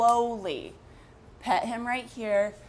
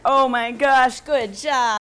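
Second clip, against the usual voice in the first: high-pitched praise voice; 6 semitones higher, 6 dB louder, much slower than usual. Real, not acted. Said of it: "that high-pitched voice that I've been doing".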